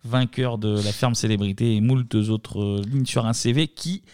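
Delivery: slow, drawn-out filler with hesitations; stalling for time. Real, not acted. Host stalling while hunting for song number three, slow and halting. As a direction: pad it out slowly, word by word. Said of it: "j'essaie de meubler comme une merde".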